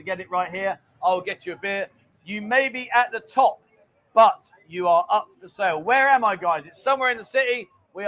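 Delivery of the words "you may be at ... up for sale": slow, deliberate riddle reading; slow quiz read. Shown as a demonstration. Host reads quiz clue to viewers, slow and deliberate. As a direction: spell the clue out slowly for the viewers. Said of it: "question number one".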